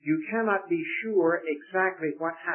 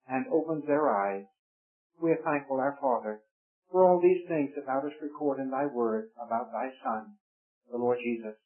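hushed, reverent prayer voice; pastoral prayer. Acted. Preacher praying to God before the study, reverent and subdued. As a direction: pray for the whole congregation, unhurried.

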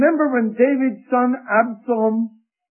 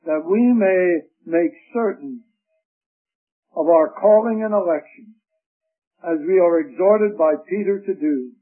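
prayer; 3 semitones lower than usual. Acted. Leads the closing prayer.

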